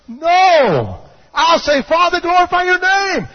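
high, loud, defiant prayer; impassioned cry. Retold or imitated. Preacher voices Jesus refusing deliverance, high impassioned cry. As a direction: cry it out, rising high on the plea. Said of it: "He cried out from the anguish of His soul".

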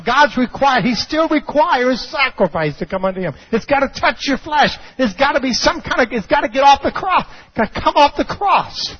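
high, insistent pulpit delivery; full-force preaching. Acted. Preacher insists on sacrifice to the congregation, full-force preaching. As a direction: drive each demand home, pitched high.

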